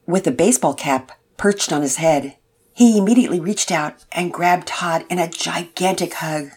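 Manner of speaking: calm, even reading voice; story narration. A narrator's reading. Narrator telling the family story, calm storyteller voice. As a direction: read it like a gentle storyteller.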